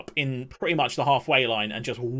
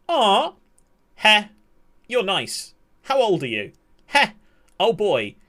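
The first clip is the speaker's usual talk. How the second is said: lightly voiced flirt, a bit higher; mock flirty coo; 7 semitones higher, 5 dB louder, slower than usual. Streamer reading a flirty message, mock cooing. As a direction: coo it like a lovestruck texter.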